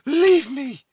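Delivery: high, loud, grave dismissal; solemn command. A narrator's reading. Cora beckoning the Huron away, solemn command. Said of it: "with a solemnity that for a moment checked".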